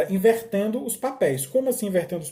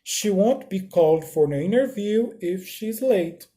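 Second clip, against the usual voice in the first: slow and clear English sentence; careful classroom read; slow model reading; 2 semitones higher than usual. Shown as a demonstration. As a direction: read it slowly for learners. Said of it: "ó, reparem".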